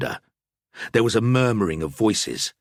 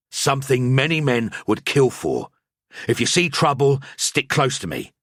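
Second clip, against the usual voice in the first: urgent priest; 6 semitones higher than usual. A narrator's reading. Priest warns Jakob.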